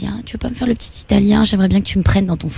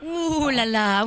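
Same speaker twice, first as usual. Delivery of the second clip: mock alarm; 6 semitones higher, 5 dB quieter, much slower than usual. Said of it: "je suis une petite étudiante chinoise".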